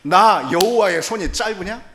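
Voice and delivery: loud, high indignant challenge; God answering Moses' doubt with a loud challenge. Retold or imitated. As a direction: bristle at being doubted. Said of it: "하나님 발끈하시면서도".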